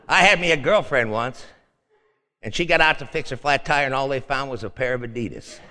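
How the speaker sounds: retold cop chuckling through his joke; laughing while telling. State trooper laughing as he warns a tourist, chuckling. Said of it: "he starts laughing at me".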